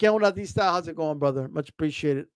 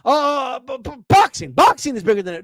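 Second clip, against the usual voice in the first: mock flustered self-correction, stumbling on the first words; catching himself; 2 semitones higher, 4 dB louder than usual. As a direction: imitate someone stammering into a hasty correction. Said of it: "then he caught himself and he's like".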